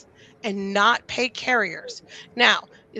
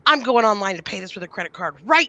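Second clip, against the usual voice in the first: retold angry customer; 6 dB louder than usual. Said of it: "He goes".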